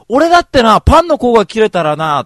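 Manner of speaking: loud, high indignant yell; inner outburst. Retold or imitated. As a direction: shout your own complaint right back. Inner fury at brother.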